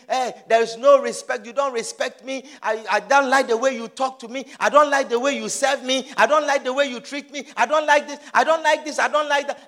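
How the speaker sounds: lightly acted nagging complaint; a hint of a fed-up husband; complaining husband. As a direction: rattle off grievances as a husband, rising. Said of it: "Your husband is complaining".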